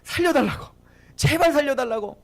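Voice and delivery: imitated frightened child's plea; retold trembling plea. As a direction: act out pleading for your life. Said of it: "벌벌 떨면서 막".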